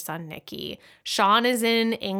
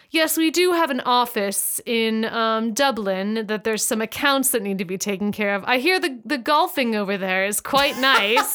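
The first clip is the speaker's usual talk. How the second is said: British stereotype. Retold or imitated. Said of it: "the most ridiculous British stereotype".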